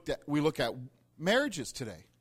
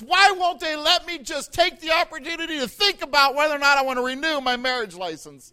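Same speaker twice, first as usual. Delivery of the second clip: much higher and louder complaint; worked-up buddy; 9 semitones higher, 10 dB louder than usual. Retold or imitated. Buddy asking the pastor, much higher and louder, exasperated. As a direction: build the outrage as you ask it. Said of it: "He goes".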